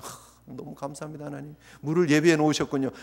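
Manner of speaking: soft whispered sigh of relief, then thanks; relieved thanks. Retold or imitated. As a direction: breathe out the relief after drinking. Thirsty people finally drink water. (물을 마신 백성의 안도하는 감사)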